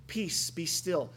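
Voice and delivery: calm, mild command; too polite. Retold or imitated. Jesus calming the storm, too gently. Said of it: "sounds too polite".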